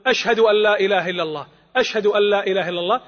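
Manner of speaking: spoken out fuller after the whisper. Shown as a demonstration. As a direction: lift the shahada back to full voice. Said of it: "ثم يعيدها بصوت مرتفع". (بصوت مرتفع بعد الهمس)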